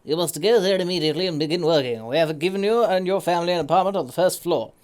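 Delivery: brisk official reading of a state letter; formal letter read. Acted. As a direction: read it like a ministry notice, quick and stiff. Reads the game letter aloud.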